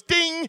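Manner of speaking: a high sung "ding" like a correct-answer chime; imitated ding. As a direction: chime "ding" brightly like the app's right-answer sound. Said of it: "if you hit it and it's right, it goes".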